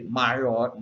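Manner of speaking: "maior" drawn out with its vowels crammed together; run-together vowels. Shown as a demonstration. Teacher showing the awkward joined reading, vowels squashed together. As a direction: say "maior" slowly, squeezing all three vowels into one. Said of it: "nem dá pra eu ler".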